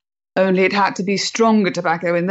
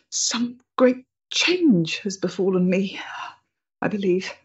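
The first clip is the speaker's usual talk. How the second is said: awed whisper; 4 dB quieter than usual. Acted. Overcome, awed confession.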